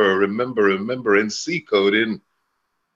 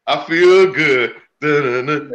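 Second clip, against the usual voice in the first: a singer; 3 semitones higher, 5 dB louder than usual. Retold or imitated. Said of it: "That's a singer, baby".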